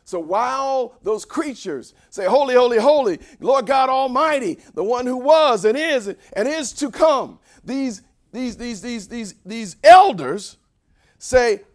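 loud, drawn-out proclamation; full-force preaching. Real, not acted. Preacher setting up the elders' cry, loud proclamation. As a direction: build up loudly to the key word.

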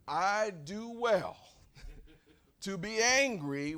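slow, loud, emphatic insistence; acted defiance. Jonah answering God's question, slow defiant insistence. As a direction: stretch each word in stubborn self-justification.

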